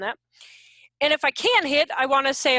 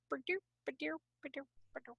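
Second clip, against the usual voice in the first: orderly duck beat; 19 dB quieter, faster than usual. Shown as a demonstration. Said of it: "I married ducks in a row".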